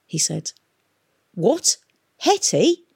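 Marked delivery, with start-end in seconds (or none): 1.3-2.8 rising, high-pitched query; bewildered. A narrator's reading. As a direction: ask in baffled disbelief. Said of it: "Peavy looked bewildered".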